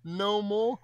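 high, drawn-out comic begging; mock pleading. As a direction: beg for mercy in an overdone high voice. Mock begging at an unwanted scene.

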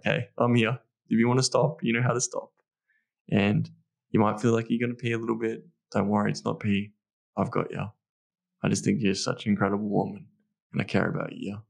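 calm her nerves tenderly; quiet tender bedroom reassurance; really soft. Shown as a demonstration. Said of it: "I'm being really soft".

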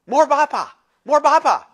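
put-on high, loud little-kid plea; toddler voice. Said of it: "Wesley goes".

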